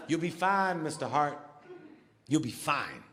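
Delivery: soothing the patient in a low mock voice; mock doctor reassurance.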